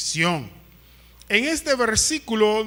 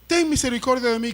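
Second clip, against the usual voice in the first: quick quoted plea; 4 semitones higher, faster than usual. Retold or imitated. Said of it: "Él le dijo".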